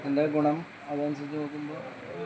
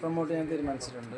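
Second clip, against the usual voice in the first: louder repeat of the same answer, pushed out for the mic. Real, not acted. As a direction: speak up as asked. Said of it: "ഉറക്കെ പറയൂ". (ആവശ്യപ്പെട്ടപ്പോൾ ഉറക്കെ ആവർത്തിച്ചു)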